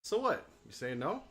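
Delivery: put-on high, pushy young knight; defiant girl knight. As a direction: brush off the objection. Voicing Marsha, defiant.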